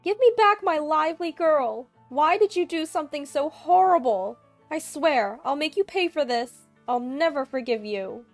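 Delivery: high, loud vengeful yelling; venomous screaming. A narrator's reading. Mother-in-law threatening her daughter-in-law on the phone, shrieking. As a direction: scream threats like a grieving mother gone wild. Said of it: "All she did was spew venom at me".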